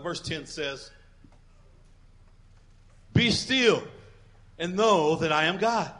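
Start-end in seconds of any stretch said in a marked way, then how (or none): 3.1-5.9 bold, ringing declaration; with passion. Shown as a demonstration. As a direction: proclaim it with passion. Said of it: "we wanna read it all, with passion".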